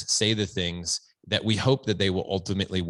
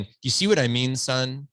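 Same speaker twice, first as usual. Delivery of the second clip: lightly hammed-up self-satisfied dad, a bit higher; mock preachy dad; 5 semitones higher than usual. Dad mocking himself lecturing his son, smug and a bit higher. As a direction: play the smug dad showing off his wisdom. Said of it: "I'm not saying".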